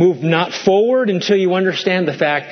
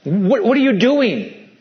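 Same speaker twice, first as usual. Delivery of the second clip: slow, scolding mother's voice; a hint of the stereotypical Jewish mother; guilt-tripping Jewish mother; 4 semitones higher, slower than usual. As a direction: make him feel guilty, mock-anxious mom. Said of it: "a good stereotypical Jewish mother making Jesus feel guilty".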